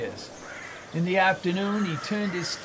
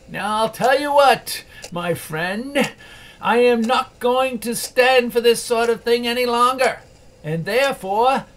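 loud, higher mock threat; feigned sternness; 5 semitones higher, 5 dB louder than usual. Scrooge faking a threat to Bob, loud mock sternness. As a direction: build up the fake threat. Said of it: "as near as he could feign it".

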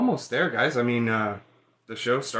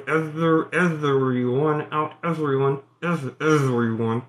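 shouting everyone out; 4 dB louder than usual. Shown as a demonstration. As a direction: call everyone out at full voice. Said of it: "I just try to shout every".

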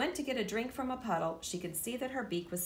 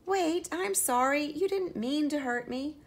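calling out sorry; 8 semitones higher, 6 dB louder than usual. Acted. Henrietta calling after the fleeing mouse, high and loud. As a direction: call after her, regretful.

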